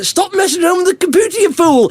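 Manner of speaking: a hint of an exasperated telling-off; mock scolding. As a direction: scold the fool on the computer, half-joking. Scolding the computer operator.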